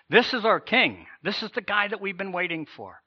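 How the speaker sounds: high, loud preaching lift on the king; rising excitement. Real, not acted.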